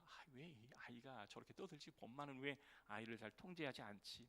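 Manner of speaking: soft irritated muttering to himself; annoyed grumble. Retold or imitated. Pastor voicing the annoyed traveler, quiet irritated mutter. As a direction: grumble it under your breath. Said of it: "막 짜증이 나 있는데".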